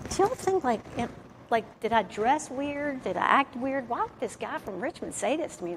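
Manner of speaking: put-on worried self-quote asking girlfriends for reassurance; fretting to friends. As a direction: ask the friends if you looked weird. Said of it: "I'm like".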